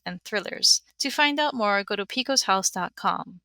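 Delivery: even, scripted ad read; sponsor read. Real, not acted. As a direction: read the sponsor message clearly to listeners. Reads a sponsor message.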